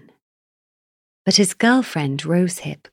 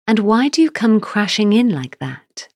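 indignant; 5 semitones higher, 5 dB louder than usual. Acted. King rebukes the giant.

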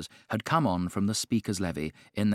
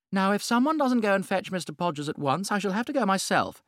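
gushing society hostess; 6 semitones higher than usual. A narrator's reading. Lady Windermere boasting to the Duchess, high and gushing. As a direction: show off her palmist with delight.

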